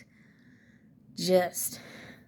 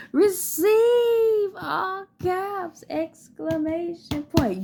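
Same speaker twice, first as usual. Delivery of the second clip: emphatic; 7 semitones higher than usual. Shown as a demonstration.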